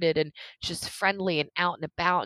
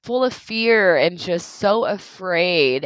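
getting emotional; 4 semitones higher, 7 dB louder, slower than usual. Real, not acted. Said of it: "I may get emotional again".

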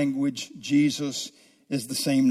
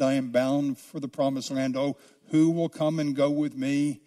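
hymn recitation. Acted. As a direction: recite the old hymn with reverence, unhurried.

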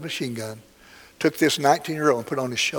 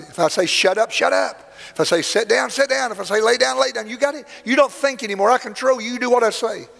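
mock drill instructor screaming in his face; drill sergeant yell; 9 semitones higher than usual. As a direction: scream it like a captain at a private. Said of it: "he's screaming at this private".

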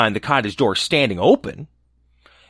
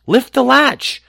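put-on high frail old woman calling; grandmother voice; 12 semitones higher, 4 dB louder, slower than usual. A narrator's reading. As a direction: call out feebly from bed. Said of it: "called out the grandmother".

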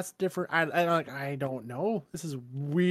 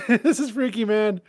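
laughing through the words, a bit higher; half laughing, genuinely spooked; giggly nervous disbelief; 4 semitones higher, 4 dB louder than usual. Real, not acted. Spooked by lights turning on.

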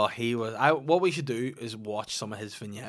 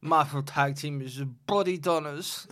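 Katie Price voice. Pretend. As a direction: ham it up as a giggly celebrity. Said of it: "as Katie Price".

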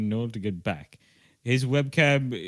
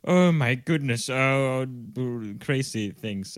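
imitating panicked friend; 3 semitones higher, 5 dB louder than usual.

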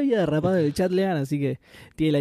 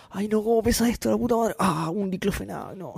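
tired and straining, complaining; worn-out grumble under the weight; carrying heavy load; 5 semitones higher than usual. Retold or imitated. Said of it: "Se va cansando en el camino".

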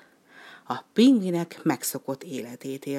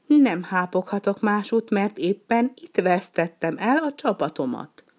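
higher, louder wailing duck lament; lost duck lamenting to the penguin, higher and louder; complaining lament; 5 semitones higher, 4 dB louder than usual. Acted. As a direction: wail over the lost flock.

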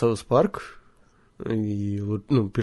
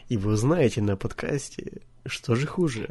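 suspenseful announcer; 5 dB quieter than usual. Shown as a demonstration. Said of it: "ты должен был сказать".

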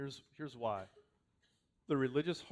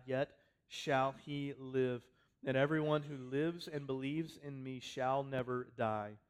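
proclaiming scripture; 4 dB louder than usual. Acted. Preaching Jesus' words with force.

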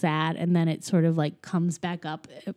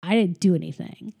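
retold sulky teenager, first word pitched up; typical teenager; 4 dB louder than usual. Host retells son arguing with dad, in a typical teenager voice. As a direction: imitate a teen talking back, with a loud jab midway. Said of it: "the typical teenager thing".

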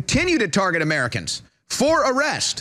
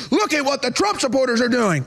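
mock accusation; 4 semitones higher than usual. Voices attacker blaming others.

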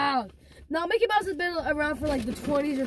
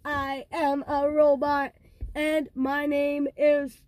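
slow, even robot talk; slower than usual. Pretend. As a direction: speak like a stiff machine. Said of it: "Let's turn us into robots".

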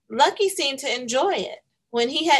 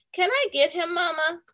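high pleading ask; pleading little girl; 8 semitones higher than usual. Acted. Girl asking her mother for the dog, pleading. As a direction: beg mama sweetly.

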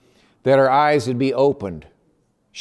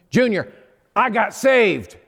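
joyful news; 6 semitones higher, slower than usual. Retold or imitated. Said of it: "And she said".

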